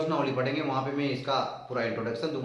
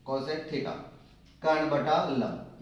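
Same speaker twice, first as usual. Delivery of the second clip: कर्ण बटा लंब spoken slowly; slow recitation; much slower than usual. Shown as a demonstration. Teacher dictates the cosec formula slowly. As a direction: spell it out slowly. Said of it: "इसको यूं पढ़ेंगे उल्टा".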